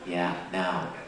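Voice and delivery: very low, softened mic voice; deep, savoring the amplified sound playfully; mock-sinister. Joking about getting inside heads.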